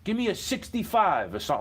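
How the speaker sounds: retold plea to a teacher for a sixty-five; begging teacher. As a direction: beg him for a passing grade, half joking. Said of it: "I was begging him".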